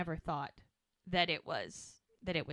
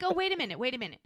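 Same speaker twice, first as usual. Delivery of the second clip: mock indignant disbelief; 4 semitones higher than usual. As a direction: pile on the outrage, building to the question. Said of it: "She's like".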